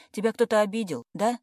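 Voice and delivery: выше и громче, с тревогой; допытываться у расстроенной подруги; встревоженный вопрос. A narrator's reading. (тревожно расспрашивает пьяную подругу)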